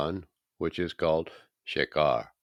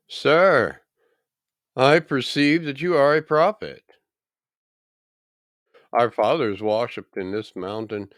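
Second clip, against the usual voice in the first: higher, louder Samaritan woman, awed; awed woman at the well; 6 semitones higher, 6 dB louder than usual. Acted. Woman at the well realizing he is a prophet, awed and higher. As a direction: lift the voice high in wonder at a prophet. Woman voiced in scripture reading.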